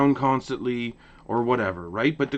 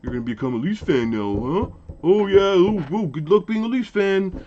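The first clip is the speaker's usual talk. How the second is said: joking tease; 3 dB louder than usual. Retold or imitated. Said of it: "jokingly said".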